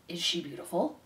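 low, soft confidential murmur; whispered. A narrator's reading. Threadmaster asking about the princess, whispering. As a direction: drop it low and quiet, just for one ear. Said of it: "the threadmaster whispered".

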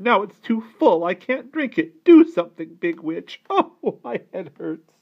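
high, loud, fussy aunt; complaining cry. A narrator's reading. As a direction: make a big drama of every complaint. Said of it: "she cried".

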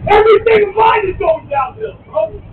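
tearful shouting, voice breaking with rage; crying angry yell. Real, not acted. Man in tears yelling at the crowd, crying shout. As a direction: sob and yell it out at them, really upset.

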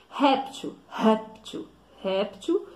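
"Réptil" with RÉP stressed; stress on first syllable. Shown as a demonstration. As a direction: repeat "réptil", leaning on the opening "rép". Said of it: "é o ré".

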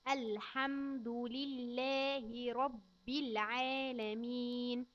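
put-on every syllable drawn out for a child; very slow recitation. Shown as a demonstration. Teacher reciting very slowly for a child. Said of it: "نقول تاني يا كيجي".

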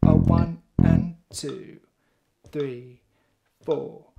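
slow, low count-in with the metronome; counting out loud. Shown as a demonstration. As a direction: count each beat slowly and deep. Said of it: "always count out loud".

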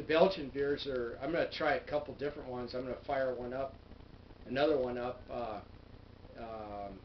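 speaking through fingers; talking with fingers on lips. Real, not acted. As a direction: hand partly covering mouth. Seen 3: fingertips rest on lips while talking; drops hand briefly at 7.7.

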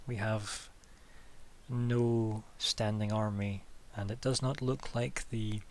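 measured, slow, careful official; a hint of a weary stateswoman laying out the city's plight; lightly voiced official. A city official explaining to the party, slow and measured.

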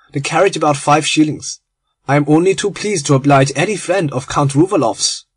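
lightly voiced German gentleman, cheerful and hospitable; a hint of a friendly German host; genial German conspirator. Genial German welcoming his guest Lord Arthur, light accent. German waves away payment.

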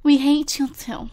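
quiet, half-whispered mock sulk; a light put-on pout voice; sulky Sim voice. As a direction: play the sulking Sim, drop to a whisper. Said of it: "Why do I keep doing that voice today?".

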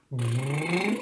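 quiet rolled trill; gentle lip buzz; soft lip buzz. Shown as a demonstration. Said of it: "tongue trills and lip buzzing like this".

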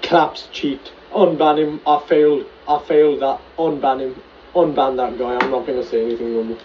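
loud despairing rant; yelling in frustrated rage; raging gamer. Real, not acted. Raging after losing.

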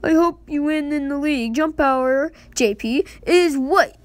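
lightly put-on tutorial voice; game character read-out. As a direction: read the instructions like an eager game host. Reads game text in put-on voice.

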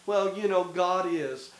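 mild, noncommittal mock-wimpy delivery; limp, casual shrug of a statement. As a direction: say it like a half-hearted believer, no force. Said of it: "not a sissy, wimpy".

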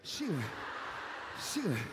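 taunting parrot. Acted. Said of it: "y el loro así".

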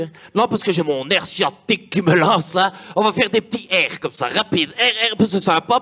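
Hitler with a Belgian accent, hammed up; a mock dictator with Belgian French; mock Belgian accent, jokey. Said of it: "toi, Hitler belge?".

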